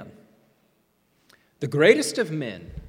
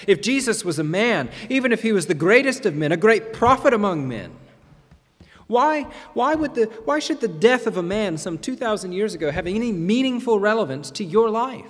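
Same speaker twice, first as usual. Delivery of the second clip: louder, higher, building urgency; rising preaching intensity; 5 semitones higher, 4 dB louder than usual. Acted. Preacher challenging the congregation, louder and rising. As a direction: drive the question home.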